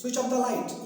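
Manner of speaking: loud, firm commands; high tone orders. Shown as a demonstration. Teacher giving loud classroom commands. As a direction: bark the orders like a drill. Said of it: "वो automatically high होता है".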